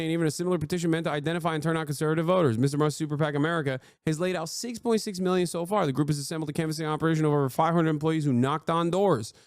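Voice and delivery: fast, even reading voice; article read. Real, not acted. Streamer reading a news article to chat.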